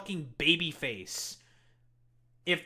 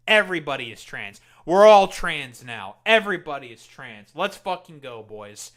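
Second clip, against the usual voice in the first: mock announcement; 8 dB louder than usual. Streamer mocking conservatives, loud hammed-up proclamation. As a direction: declare it like big news, mocking.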